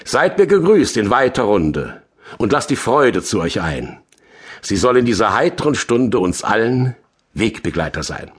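measured, lilting poetry reading; declaimed rhymed poem, line by line; poem recitation. Acted. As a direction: recite the spring verses with festive emphasis.

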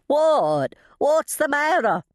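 high, alarmed shriek; startled high-pitched yell. A narrator's reading. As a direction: cry out in alarm as you run to help. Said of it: "shrieking as she ran".

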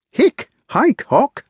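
high tipsy hiccuping; town drunk. Acted. Drunken knight hiccuping over drink.

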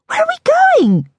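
high, slow, puzzled Daisy voice; slow bemused woman's voice; bemused repeat. A narrator's reading. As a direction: draw it out, bewildered. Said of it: "she repeated, bemused".

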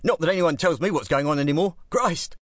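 put-on high, rambling drunk complaint; drunk grumbling. A narrator's reading. Drunk grumbling at the masked Bentleys, gibbering. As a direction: moan it to yourself, half-sozzled. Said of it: "he gibbered".

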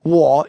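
"Wo" in a low falling-rising tone; third tone. Shown as a demonstration. Teacher going over the tones, "Wo" in third tone. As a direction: say "Wo" in Mandarin third tone. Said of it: "is third tone again".

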